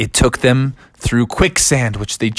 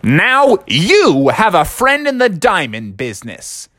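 put-on slow, higher old-man slogan; Tom Shane; 5 semitones higher than usual. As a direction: deliver it as a drawn-out advert tagline. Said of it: "Tom Shane said".

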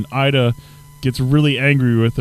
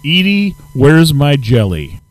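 character quote; 6 dB louder, slower than usual. Retold or imitated. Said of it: "the question".

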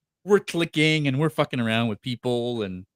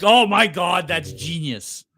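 Oh my God, raised higher and louder; gushing delight at a clever costume idea; excited Oh my God; 3 semitones higher, 6 dB louder, slower than usual. Retold or imitated. Wife thrilled by the ghost face mask plan, excited squeal. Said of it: "And Teresa was like".

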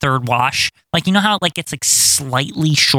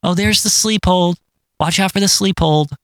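imitating repetitive announcer; 5 semitones higher than usual. Co-host mimics announcer who keeps saying sleep hold, mock play-by-play. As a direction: keep calling it like a fixated commentator. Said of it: "He just keeps saying sleep hold".

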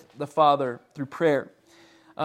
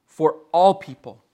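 "all" leaned on, a little louder; stress on "all"; 5 dB louder than usual. Shown as a demonstration. Preacher underlining a point for the congregation, stress on "all". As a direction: put the weight on "all" in "for all people". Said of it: "Emphasis on all people".

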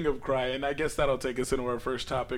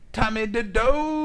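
mock Asian accent; 7 semitones higher, 4 dB louder, much slower than usual. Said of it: "Asian, go".

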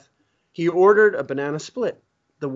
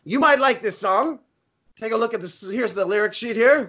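casual put-on celebrity, a touch higher; impression of a rock guitarist; 3 semitones higher than usual. The guitarist showing his lyric sheet, lightly voiced. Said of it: "It's Eric Clapton".

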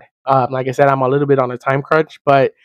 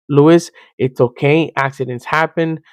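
gentle reassurance. Retold or imitated. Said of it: "she responded with love".

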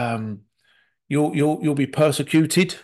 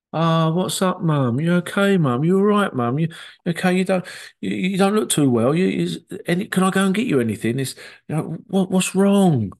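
higher, eager worried fussing over Mum; concerned rescuer; 5 semitones higher than usual. Retold or imitated. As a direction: anxiously fuss over Mum, pitch up. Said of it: "will take on the rescuer".

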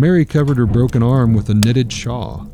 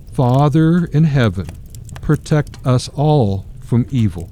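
stumbling prayer; 3 semitones higher than usual. Acted. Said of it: "stumbled through a few words".

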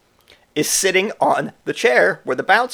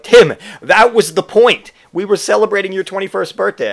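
exasperated; 5 semitones higher, 5 dB louder than usual. Retold or imitated. Explaining the birthday treat to drunk Tim, exasperated. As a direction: spell out the obvious, exasperated.

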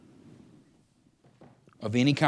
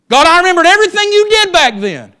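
full-force, high-pitched cry to God; fervent shout; 19 dB louder than usual. Acted. Israelite praying at the Red Sea, fervent shout. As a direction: shout it out like a preacher at full power. Preacher acts out fervent prayer.

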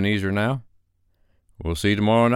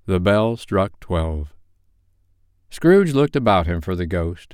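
story narration; 3 dB louder than usual. A narrator's reading.

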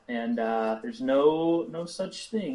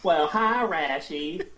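sugary Southern drawl; Southern lady voice; 3 semitones higher, slower than usual. Acted. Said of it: "role play Carolyn".

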